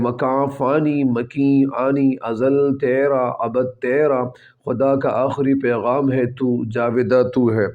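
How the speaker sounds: slow, measured poetry reading; unhurried recital of a verse; verse recitation. Acted. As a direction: recite the couplet slowly, drawing out the words. Recites the verse being explained.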